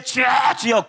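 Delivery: mock bellowed cry to the Lord; loud shouting prayer. Shown as a demonstration. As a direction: bellow it out like a desperate beggar. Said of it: "고래고래 소리치며". (고래고래 외치는 기도)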